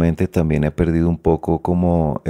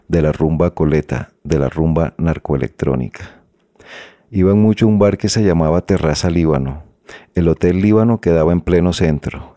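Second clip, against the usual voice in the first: story reading aloud; 3 dB louder than usual. Acted. Author reads the opening of the book to the interviewer, reading aloud. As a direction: read the passage out a little louder than chat, with steady projection.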